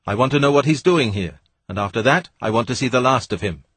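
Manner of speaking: lightly voiced impatient scientist; gruff Weston. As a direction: brush the stranger off with contempt.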